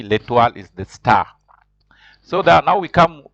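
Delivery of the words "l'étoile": L'étoile pronounced "lay-twahl"; model pronunciation. Shown as a demonstration. French teacher has the class repeat L'étoile, model pronunciation. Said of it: "Repeat after me".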